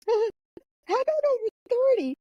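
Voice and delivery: high, slow mocking quote of the teacher; teasing old master. Storyteller quoting her wushu master as he teases her, high and slow.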